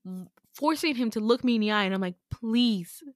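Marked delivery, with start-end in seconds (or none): 2.3-3.0 slow, drawn-out retold plea; earnest, deliberate appeal; insistent plea. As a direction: act out begging, lingering on "please". Forcing eye contact, begging.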